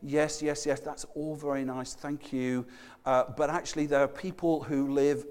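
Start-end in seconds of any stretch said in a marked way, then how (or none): 0.0-2.7 soft, polite dismissive yes yes; a mild mock polite brush-off. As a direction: fob off a visitor politely. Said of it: "they would kind of politely say".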